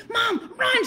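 high, urgent holler; retold panicked shout; yelling to mom. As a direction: yell at her to flee, half laughing. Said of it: "I'm yelling to Mom".

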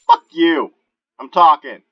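loud outburst at an interrupter; indignant shout. Real, not acted. Player telling off a zombie for interrupting, indignant shout. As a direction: shout them down for butting in.

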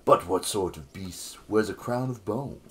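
musing bard, talking not reciting; bard speaking voice. Acted. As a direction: ponder the riddle aloud in bard voice. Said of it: "can you give him a sexy bard voice?".

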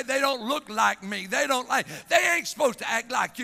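forceful, driving church sermon delivery; impassioned preaching. Real, not acted. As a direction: preach it with mounting urgency to the congregation.

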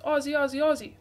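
loud Aussie chant; Aussie accent. Shown as a demonstration. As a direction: chant it like an Australian fan. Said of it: "our best Aussie accents".

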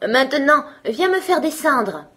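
put-on high, excited small-boy shout; high-pitched holler, loud at first then easing; calling out. A narrator's reading. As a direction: call proudly to father, high and loud. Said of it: "il lui cria".

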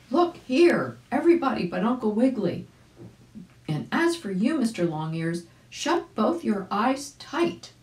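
high, loud call to everyone; loud cry. A narrator's reading. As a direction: shout it out to the group, high and bright. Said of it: "cried out quite loudly".

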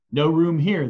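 loud, curt refusal; innkeeper refusing. Acted. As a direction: turn him away at the door. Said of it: "the innkeeper said".

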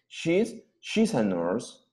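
"she's a nurse" said slowly, each word laid out; slow careful demo. Shown as a demonstration. Teacher modelling "she's a nurse" slowly for students. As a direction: spell it out slowly for the class. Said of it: "Más rápido".

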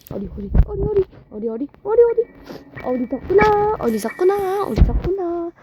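high mocking villain. (높은 톤의 조롱하는 악당)

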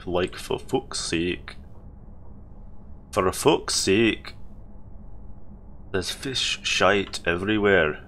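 lightly put-on Scottish accent, slow; imitated Scottish accent. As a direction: mimic a thick Scottish or Irish accent, slowly. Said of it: "made the accent a bit stronger".

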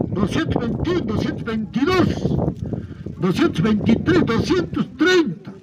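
rhythmic auction chant calling bids; spanish auctioneer. Acted. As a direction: call out each rising bid in turn. Counting up bids live.

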